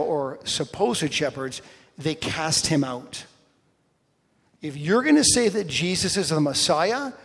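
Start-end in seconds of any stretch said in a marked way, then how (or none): 4.6-7.1 mock stern threat. Leaders threatening to throw the healed man out, stern and loud. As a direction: lay down the law like an outraged elder.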